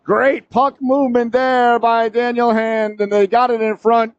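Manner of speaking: high, drawn-out praise after the goal; excited goal recap. Real, not acted. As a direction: still buzzing, slowly easing down. Relishing the goal just scored.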